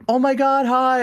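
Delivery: high, delighted squeal of hello; excited greeting. Retold or imitated. Streamer greeting a nervous fan at a meetup, excited.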